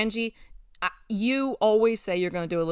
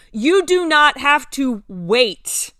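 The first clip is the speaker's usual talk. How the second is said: Jesus speaking; 5 semitones higher, 6 dB louder, much slower than usual. Acted. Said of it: "Jesus says".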